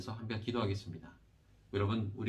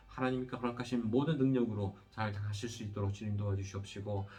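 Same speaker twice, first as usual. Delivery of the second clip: steady, evenly pitched praying voice with little melody; earnest pastoral prayer. Real, not acted. Pastor leading the congregation in prayer after the sermon, earnest prayer. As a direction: pray aloud in long, rolling petitions that settle at each close.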